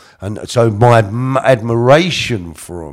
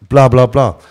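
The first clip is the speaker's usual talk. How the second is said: ordinary delivery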